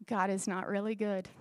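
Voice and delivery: low, hushed voice of the enemy; voiced stage whisper, pitched low; mock whispered lie. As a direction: imitate a tempter quietly planting a lie. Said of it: "he whispers lies like".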